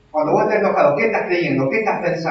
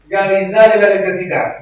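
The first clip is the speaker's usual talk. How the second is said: higher, louder anxious grandmother urging; imitating mother-in-law; 5 semitones higher, 8 dB louder than usual. Preacher imitating his mother-in-law urging him to feed the baby, mildly anxious. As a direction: nag like a fretting grandma. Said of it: "me acuerdo de mi suegra".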